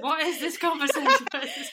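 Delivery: high-pitched words through laughter; real giggles breaking up the question; laughing. Real, not acted. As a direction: crack up while asking in disbelief. Cracking up at the tangent.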